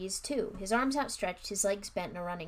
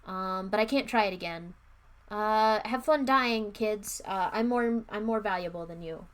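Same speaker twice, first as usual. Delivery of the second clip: loud, offhand mock excuses; mocking the wizard; 6 dB louder than usual. Reader mocking the wizard who abandons the kids, loud and scornful. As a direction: sneer through his lame excuses. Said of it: "he's like".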